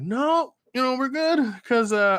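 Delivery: retold refusal. Customer declining the dancer's upsell, high-pitched retold refusal. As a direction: turn them down high and quick to excuse.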